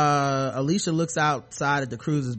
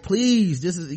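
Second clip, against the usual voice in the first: retold plea, higher on "please"; begging; 4 semitones higher, slower than usual. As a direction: plead like someone begging her to stay. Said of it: "you know, he's begging her".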